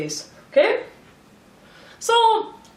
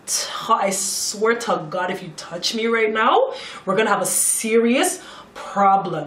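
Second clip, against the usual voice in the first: retold stern warning. Warning Ted not to touch her, retold sternly.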